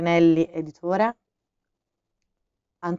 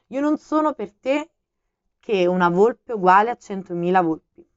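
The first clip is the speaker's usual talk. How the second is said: a hint of a pleading fox, louder than the narration; the fox asking earnestly to be tamed; fox, lightly voiced; 2 semitones higher, 9 dB louder than usual. A narrator's reading.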